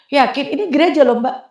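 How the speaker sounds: doubtful checking. Retold or imitated. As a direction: imitate a greeter double-checking. Greeter doubts a Muslim visitor.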